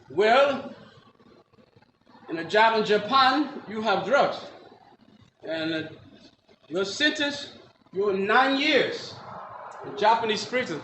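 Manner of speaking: put-on slow, halting Japanese-accented English; imitated Japanese judge, measured and halting. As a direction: pronounce sentence in a Japanese accent, with long pauses. Acted Japanese judge passing sentence.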